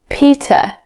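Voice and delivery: a hint of a child's high voice; small boy. A narrator's reading. Small boy gives his name.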